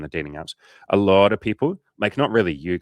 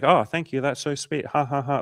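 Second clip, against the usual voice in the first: put-on girly thank you; 7 semitones higher, 3 dB louder than usual. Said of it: "she's like".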